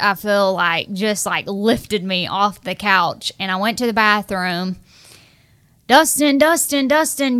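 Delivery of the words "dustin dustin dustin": calling Dustin loud and high, each falling; yelling a name. Retold or imitated. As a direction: shout his name urgently through the door. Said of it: "yelling, yelling".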